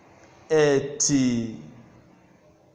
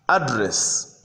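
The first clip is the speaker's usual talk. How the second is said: "address" with stress on the first syllable; noun pronunciation. Shown as a demonstration. Teacher gives address as a noun, first-syllable stress on "address". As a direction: lean on the opening syllable of "address". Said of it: "you can hear the difference".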